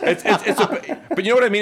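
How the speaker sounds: real flustered laughter; embarrassed laugh. Real, not acted. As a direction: laugh off an awkward question.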